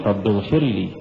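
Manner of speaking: "رب اغفر لي" with a hard final "لي"; wrong recitation. Shown as a demonstration. Teacher demonstrating the error to students. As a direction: show the faulty stop on "لي". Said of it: "ولا تقل".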